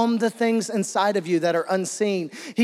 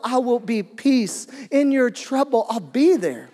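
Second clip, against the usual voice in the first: impassioned preaching; 4 semitones higher, 4 dB louder than usual. Real, not acted. Preaching builds to full force.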